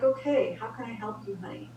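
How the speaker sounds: softening to a near hush; sweet helpful wife. Retold or imitated. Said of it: "So then you're like".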